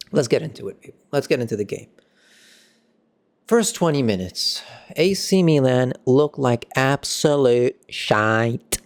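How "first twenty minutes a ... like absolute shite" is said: slow, mock English accent on absolute shite; a hint of an English football pundit. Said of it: "I said that in an English accent".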